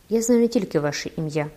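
a hint of a ghostly, hollow voice; lightly voiced phantom, speaking from the grave; lightly hollow ghost voice, understated; sepulchral voice. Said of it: "своїм загробним голосом".

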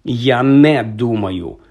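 "я не думаю" said very slowly and deliberately; measured, emphatic "я не думаю"; firm interruption. A narrator's reading. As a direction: weigh out each word of "я не думаю". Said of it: "голосно перебив його Дамблдор".

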